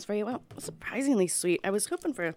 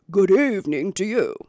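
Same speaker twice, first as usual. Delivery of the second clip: bear voice; 5 dB louder than usual. Acted. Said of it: "said the white bear".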